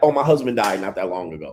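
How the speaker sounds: casual, offhand, cold and unemotional delivery. Retelling how she said something so nonchalantly: mock-cold, nonchalant. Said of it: "she said it coldly and nonchalantly".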